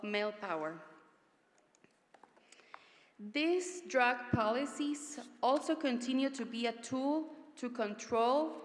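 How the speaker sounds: measured, emphatic address with deliberate pauses; firm conference oration, lifting each new phrase; formal speech. Acted. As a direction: deliver it as a solemn public statement, phrase by phrase. Reads a prepared political speech.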